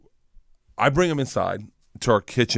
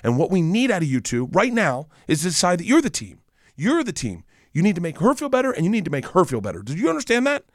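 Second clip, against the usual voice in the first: stern dad lecture; 6 semitones higher than usual. Retold or imitated. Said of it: "I go".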